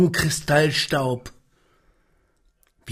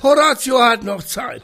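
growled warning; 11 semitones higher, 5 dB louder than usual. Acted. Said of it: "die sturmige Stimme".

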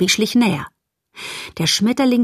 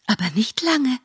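haughty butterfly; 6 semitones higher, 4 dB quieter than usual. Acted.

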